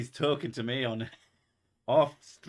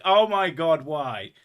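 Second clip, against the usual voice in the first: high, loud mock outcry; imitated dismay; 5 semitones higher, 9 dB louder, slower than usual. Host imitating viewers who got it, mock dismay. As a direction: cry out like an appalled viewer. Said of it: "Some of you are like".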